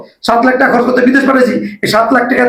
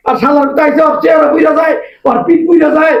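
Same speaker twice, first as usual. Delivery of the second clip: scornful scolding at higher pitch; angry berating; 5 semitones higher than usual. Acted. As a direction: tear into him with contempt. Father-in-law berating live-in son-in-law.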